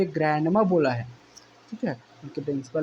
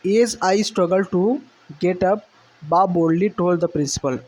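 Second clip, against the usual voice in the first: slow, deliberate reading aloud of the English passage; slow text reading; 2 semitones higher, much slower than usual. Shown as a demonstration. Teacher reading the textbook passage to students, slow and deliberate. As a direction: read each phrase out slowly for the class.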